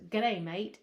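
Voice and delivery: playful, unsure Aussie accent; attempted Aussie accent. Shown as a demonstration. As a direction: have a loud go at an Aussie accent. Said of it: "Is that Aussie?".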